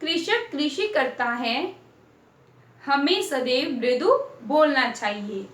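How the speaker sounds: put-on slow, careful reading of sentences for children; slow dictation reading. Shown as a demonstration. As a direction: read each phrase slowly, word by word. Teacher reads example sentences slowly.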